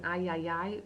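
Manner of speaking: "ay" said like English "eye". Shown as a demonstration. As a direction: repeat "ay" as an open eye sound, no H. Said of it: "It's kind of like saying".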